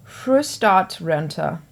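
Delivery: playful mock German pronunciation of Frühstart-Rente; German accent. Shown as a demonstration. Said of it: "that's my best German accent".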